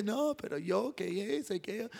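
soft, half-hearted grumble of protest; mock grumbling. Moses balking at God's call, imitated grumbling. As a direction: mumble excuses, imitating a reluctant complainer. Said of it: "Moisés rezongaba al Señor".

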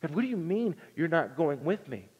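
a shaken plea to God, voice rising; mild mock panic; terrified pleading. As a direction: Moses gripped by terror, begging. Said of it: "this would have struck a terror in him".

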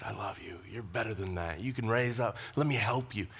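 softly spoken encouragement; the Lord's loving voice. Acted. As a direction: gently voice a loving God. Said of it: "hear the Lord's voice".

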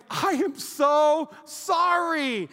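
loud, high, stretched-out sorry; hammed-up sweet apology; smiling apology. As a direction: apologise through a big smile, very slowly. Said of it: "with a smile on my face".

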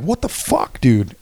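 exasperated mock outburst; retold indignation. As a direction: re-enact confronting someone, pitch leaping up. Confronting the kids in retold story.

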